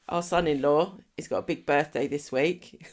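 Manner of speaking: amusement creeping into the words; trying not to laugh. Real, not acted. Host announcing son-in-law's birthday, trying not to laugh. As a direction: get it out before the giggles take over. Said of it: "can't even say it without laughing".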